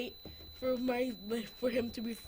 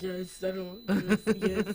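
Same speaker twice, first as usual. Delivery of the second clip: lower, mock-deep yes; pretend deep voice; 5 semitones lower, 4 dB louder, slower than usual. Boy faking a teenage voice for host, mock deep. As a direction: push the voice down playfully. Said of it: "Even if I don't have a deep voice".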